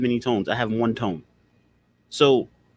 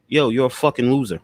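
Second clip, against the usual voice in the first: blunt, rude put-down; a rude, confrontational insult; 3 dB louder than usual. Shown as a demonstration. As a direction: sneer it out with attitude. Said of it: "That's a tone".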